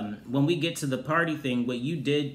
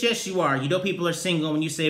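usual speaking voice

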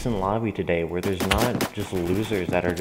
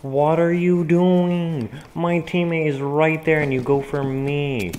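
indignant yell; 4 semitones higher, 4 dB louder, slower than usual. Real, not acted. Player attacked while teammate near.

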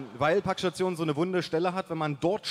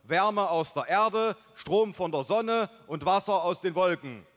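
loud, higher proclamation; enthusiastic father; 5 semitones higher, 5 dB louder than usual. A narrator's reading. Father presenting his self-sufficient house, enthusiastic proclamation. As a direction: list it out grandly, like a proud announcement. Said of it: "rief mein Vater begeistert".

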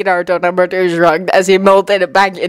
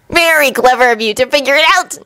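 villain voice; 6 semitones higher than usual. A narrator's reading. Impostor speaks.

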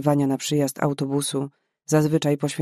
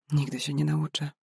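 much softer, subdued answer; quiet reply; 6 dB quieter than usual. Acted. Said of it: "odparła cicho".

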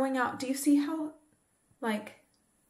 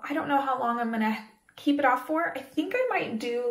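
ordinary talk, nothing marked

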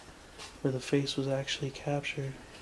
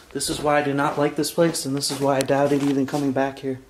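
loud; 11 dB louder than usual. Real, not acted. Loud complaint in haunted place.

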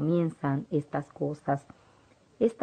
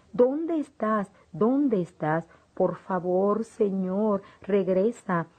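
frightened cry for Jesus; 3 semitones higher, slower than usual. Acted. Alone in the dark, calling for Jesus in fear. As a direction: call out for Jesus, lost and scared. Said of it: "Le grité a Jesús".

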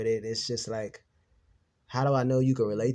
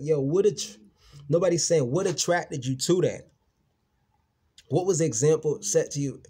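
raised, louder, pitched up, challenging; heated retort; 3 semitones higher, 4 dB louder than usual. Retold or imitated. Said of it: "And I'm like".

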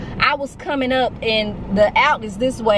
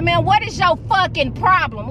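mildly exasperated retold outburst; retold snapping; 6 semitones higher than usual. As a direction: retell losing patience, voice raised in pitch. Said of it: "Like, I snapped".

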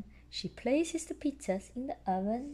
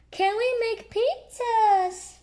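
high, slow little piglet voice; Peppa voice; 8 dB louder, slower than usual. A narrator's reading. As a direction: ask it like an eager little pig girl. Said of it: "Peppa asks".

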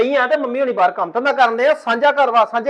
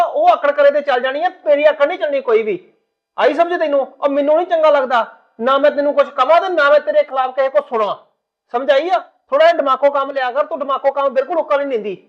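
angry lecture. Acted. Husband scolds wife.

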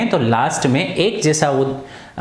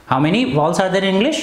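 slow question to class; 4 semitones higher, slower than usual. Shown as a demonstration. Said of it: "teacher asks class question".

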